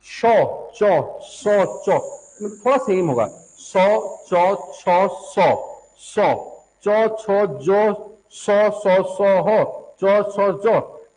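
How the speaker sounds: teacher drilling शौ, चौ, सौ one by one, each syllable clipped short; sound drill. Shown as a demonstration. Teacher drilling students on शौ चौ सौ sounds, syllable by syllable. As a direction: sound out शौ, चौ, सौ, छौ slowly and separately. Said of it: "जैसा आपका ये सौ का उच्चारण है ना".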